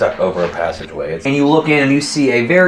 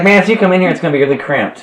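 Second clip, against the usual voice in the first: higher, louder grumble about space; ant voice; 7 semitones higher, 4 dB louder, faster than usual. Acted. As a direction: grumble about the cramped hole. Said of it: "He's like".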